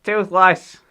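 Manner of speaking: put-on high, loud whiny boy voice; nasal American kid, pleading loudly; Hiccup impression. Shown as a demonstration. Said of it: "I'm gonna try and do it".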